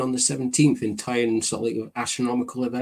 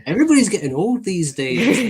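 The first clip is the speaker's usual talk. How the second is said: laughing; 8 semitones higher, 4 dB louder than usual. Real, not acted. Joking about aging co-hosts.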